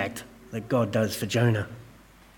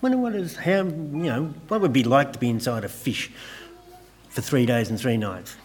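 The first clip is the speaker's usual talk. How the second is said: softer, musing inner voice; wandering thoughts; 7 dB quieter than usual. Retold or imitated. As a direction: wonder idly to yourself. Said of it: "your mind would start immediately going".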